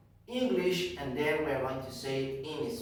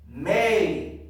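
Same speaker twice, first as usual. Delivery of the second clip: loud, emphatic model word; projected classroom prompt; teacher's drill call; 3 semitones higher, 6 dB louder than usual. Shown as a demonstration. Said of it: "I am going to say".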